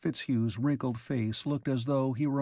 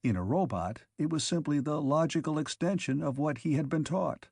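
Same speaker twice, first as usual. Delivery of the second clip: plain reading voice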